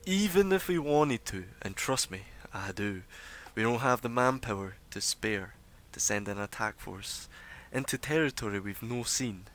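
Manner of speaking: a hint of a firm leader; lightly voiced gruff authority; stern leader. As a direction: Dorbo addressing the hushed crowd. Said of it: "And he says".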